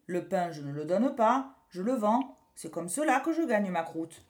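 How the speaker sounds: loud, hearty baker. Acted. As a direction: boom it out like a proud baker. Baker explains he sells.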